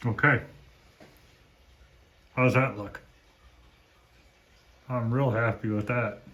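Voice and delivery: talking around a paintbrush in the mouth. Real, not acted. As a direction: speak with a brush held in the teeth. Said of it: "Sorry, I got a paintbrush in my mouth".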